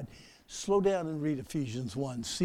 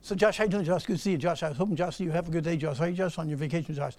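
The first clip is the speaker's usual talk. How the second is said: rushed, name repeated; much faster than usual. Shown as a demonstration. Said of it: "Why do we speed up when we pray".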